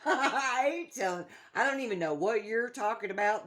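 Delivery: half-laughing protest at a nagging ghost; laughing disbelief. Retold or imitated. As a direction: laugh through the words in disbelief. Laughing while retelling ghost exchange.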